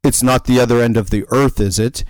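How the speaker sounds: attempted European-ish accent. Stranger shrugging off the drive, imitated European accent. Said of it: "I love your attempt at the accent".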